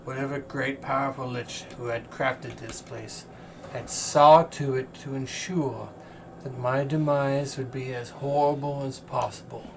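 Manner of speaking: chained celestial diva. Acted. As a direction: speak as a weary, captive angel.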